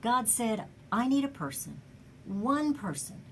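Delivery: solemn, measured recitation with dramatic pauses; poem recitation. Acted.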